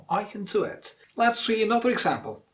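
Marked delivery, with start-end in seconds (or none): 0.1-0.9 "can" as a vowelless "kn"; weakest form of CAN. Shown as a demonstration. Teacher modelling for learners, weakest "can". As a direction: squeeze "can" into "do". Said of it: "Use the weakest form".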